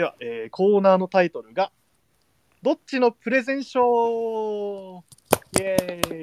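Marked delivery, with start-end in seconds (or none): 2.6-6.2 slow, drawn-out, higher announcer call; title announcer voice. Acted. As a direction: announce it like an old TV quiz show title.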